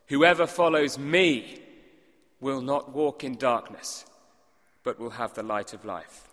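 a bold claim flung at a hostile crowd; confronting Jesus. Acted.

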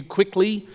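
quickly pressed with extra weight in a fast line; quickly emphasized on purpose; stress on quickly. Shown as a demonstration. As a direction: lean on the word quickly. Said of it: "I emphasize the word quickly".

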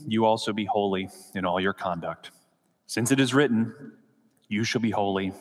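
measured, phrase-by-phrase Bible reading; scripture reading. A narrator's reading. Pastor reading Peter's letter to the congregation, measured scripture reading. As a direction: read the passage aloud evenly, pausing between clauses. Reads scripture passage aloud.

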